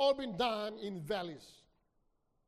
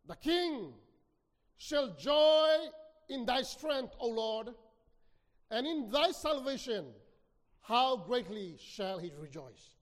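tone of rejoicing. Acted. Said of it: "The tone of rejoicing".

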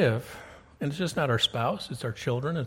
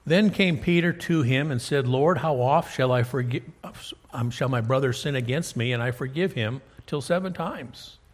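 scripture reading. Acted. Reads scripture aloud.

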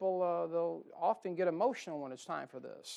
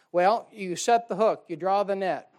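forceful preaching; 8 dB louder than usual. Real, not acted. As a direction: preach it out, punching set and draw. Preacher driving home soul-winning point.

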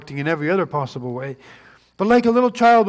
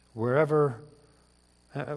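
ordinary talk

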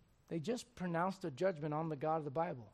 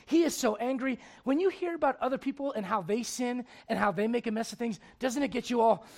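raised, emphatic sermon delivery; energetic preaching; 6 semitones higher, 8 dB louder than usual. Acted. Preacher retelling Nathan's visit to David, energetic preaching. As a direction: press the point like a preacher.

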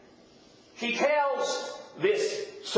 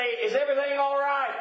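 neighbors calling out; 7 semitones higher than usual. Retold or imitated. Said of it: "they say".

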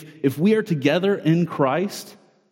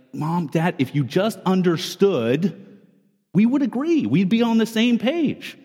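put-on pleading child; 3 semitones higher than usual. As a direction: plead like a kid sure they're right, a touch whiny. Child voiced arguing with parents.

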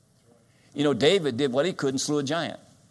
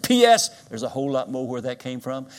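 louder, ringing proclamation to the whole church; proclaiming to the church; 5 dB louder than usual. Retold or imitated. Pastor proclaims granddaughter's note to the congregation, loud. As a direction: announce it so the back pew hears.

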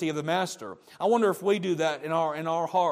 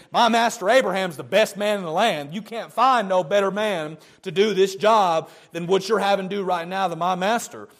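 louder, boastful praise of the master; proud servant boasting; 2 semitones higher, 4 dB louder than usual. Retold or imitated. Servant boasting to the family about his master. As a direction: brag about your master to strangers.

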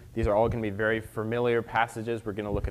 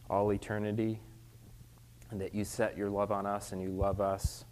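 prayer. Acted. Leads a prayer.

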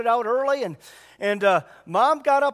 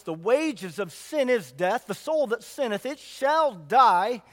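solemn scripture reading; slower than usual. Acted.

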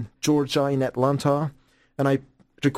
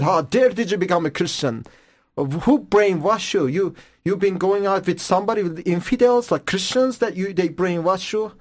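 higher-pitched, indignant mock scolding; angry mother; 6 semitones higher than usual. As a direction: imitate an outraged mother's accusations. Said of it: "So she got so angry".

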